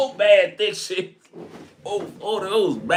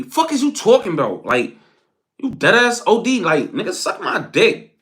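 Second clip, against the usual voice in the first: aggressive New York woman; 2 semitones higher than usual. Retold or imitated. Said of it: "New York women was so aggressive".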